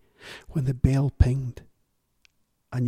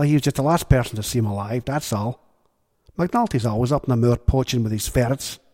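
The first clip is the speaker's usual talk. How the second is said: louder gruff Irishman waving her off; gruff dismissive Gowser; 5 dB louder than usual. Acted. Gowser dismissing Missus Galdini, loud and gruff. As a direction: brush her away bluntly.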